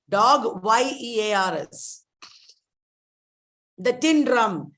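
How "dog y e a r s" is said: "Dog" said as a word, then "Y E A R S" spelled letter by letter. Shown as a demonstration. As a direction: spell "Y E A R S" out for the class. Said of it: "and Dog Years".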